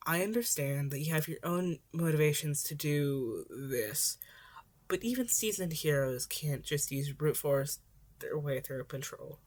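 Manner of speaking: a weary hero scolding gently; lecturing Eraserhead. Acted. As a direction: lay it out plainly to the kid.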